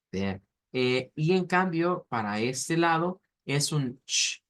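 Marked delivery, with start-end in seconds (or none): 3.5-4.4 "sh" suave y sordo, lengua detrás del alvéolo; sonido sh. Shown as a demonstration. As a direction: di "sh" como el sonido inglés, sordo. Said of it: "es una S H". ("sh" sostenido, sin voz)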